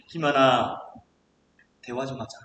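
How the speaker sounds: God's gentle voice. Acted. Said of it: "하나님께서 들려주시는 그 음성은".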